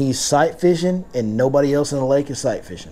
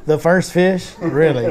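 retold incredulous question, pitched up on "first fish"; mock disbelief; 2 semitones higher, slower than usual. Angler retelling his reaction to John's first catch, disbelieving. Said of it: "And I'm like".

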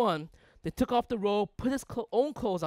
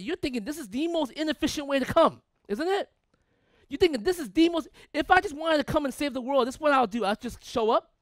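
high, pressing sermon delivery; animated preaching; 7 semitones higher, 5 dB louder than usual. Real, not acted. Preacher voicing the congregation's doubts about God's plan, animated. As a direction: argue it keenly to the congregation.

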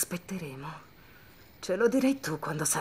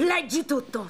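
shouting; 8 semitones higher than usual. Acted. Gunpoint threat, forcing confession.

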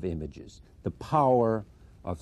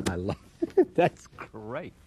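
laughing delight; 3 semitones higher, 3 dB louder, slower than usual. Real, not acted. Delighted by the quoted passage.

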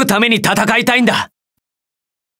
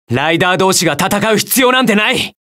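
ライダー同士が戦う必要なんてない shouted hard with stress on 必要; earnest shout. Acted. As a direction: shout it, begging them to stop. Pleading to stop rider fight.

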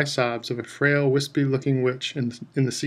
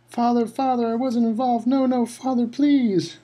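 desperate begging; 10 semitones higher than usual. A narrator's reading. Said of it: "boy dragged away, begging".

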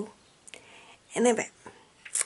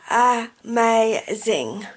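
drawn out delight; 6 dB louder, much slower than usual. Real, not acted.

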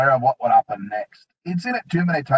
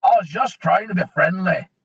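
nervous dwarf; 5 semitones higher, 4 dB louder than usual. A narrator's reading. Dwarf pleading.

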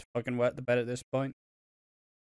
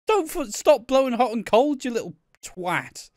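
much higher, louder shrieking rant; mock furious rant; 6 semitones higher, 4 dB louder than usual. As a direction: yell at him to stop messing her about. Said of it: "It's like".

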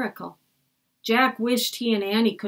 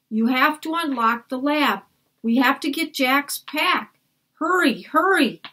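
put-on high, louder pleading girl; urgent girl Annie; 5 semitones higher, 3 dB louder than usual. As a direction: beg him to hurry.

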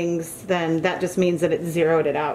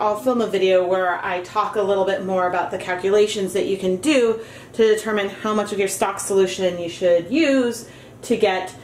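muffled through a dust mask. Real, not acted. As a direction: speak from behind a dust mask. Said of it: "why I sound muffled".

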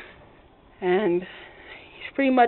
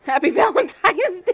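laughing; 6 semitones higher, 4 dB louder than usual. Real, not acted. Laughing reply to husband.

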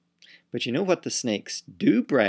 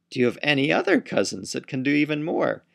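quick, louder eager asking; eager question; 4 semitones higher, 5 dB louder, faster than usual. Acted. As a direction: rush the question out in excitement. Zebra asks eagerly.

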